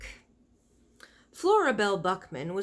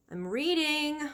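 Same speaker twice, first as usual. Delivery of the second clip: shouted back; 8 semitones higher, slower than usual. A narrator's reading. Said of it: "Flora shouted back".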